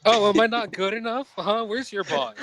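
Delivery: loud, high indignant yell; indignant shouting. Acted. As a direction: shout after him, offended. Character yells at leaving demon.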